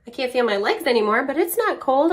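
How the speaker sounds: lightly voiced stubborn little kid; a hint of a kid insisting; child voice. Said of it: "She was like".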